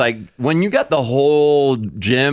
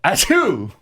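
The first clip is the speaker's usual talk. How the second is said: fake sneeze; 5 semitones higher than usual. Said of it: "felt like a sneeze".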